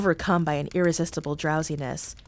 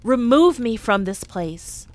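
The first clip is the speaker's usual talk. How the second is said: pleading; 4 semitones higher, 7 dB louder, slower than usual. A narrator's reading. Scrooge begs the ghost.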